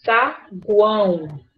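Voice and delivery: "Saguão" slowly split as sa - guão; sa... guão, separated for the class; syllable by syllable. Shown as a demonstration. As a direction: pause after "Sa" in "Saguão". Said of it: "Ficou o sa".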